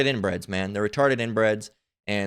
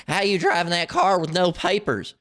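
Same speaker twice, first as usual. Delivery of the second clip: mocking imitation; 6 semitones higher than usual. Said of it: "She said".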